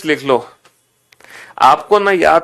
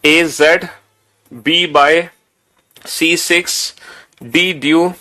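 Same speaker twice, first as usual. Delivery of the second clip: measured drill with a short pause after each pair; recitation out loud. Shown as a demonstration. Teacher shows students how to read the list aloud, recitation. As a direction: chant the list item by item. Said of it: "जोर जोर से बोल के पढ़ोगे".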